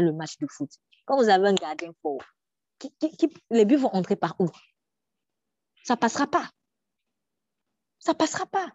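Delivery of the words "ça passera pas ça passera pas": mock boast. Defiant goalkeeper boast, repeated.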